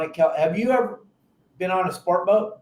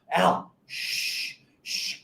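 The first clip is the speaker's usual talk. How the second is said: hushed shh; nervous shushing; 6 dB quieter, much slower than usual. Retold or imitated. Anxious boater hushing his buddy at the kelp patty, whispered. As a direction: hush the crew for fear of spooking the fish. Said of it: "They're like".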